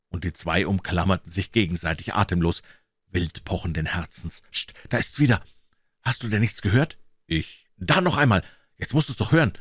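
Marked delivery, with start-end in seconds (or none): 4.5-9.5 startled, pitched-up urgency; jumpy boy hearing a noise; alarmed. Acted. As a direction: urge your friend to listen, alarmed. Boys hear noises in graveyard.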